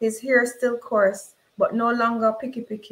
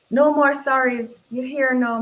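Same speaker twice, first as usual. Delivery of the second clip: insistent mother; 4 semitones higher, 4 dB louder than usual. Acted. Mother insists to her son.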